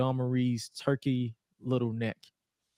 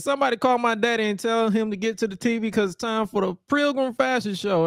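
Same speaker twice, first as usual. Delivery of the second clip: mock ring announcement; 8 semitones higher than usual.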